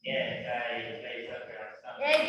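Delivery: with feeling. Pretend. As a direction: sell it with big feeling. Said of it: "With feeling".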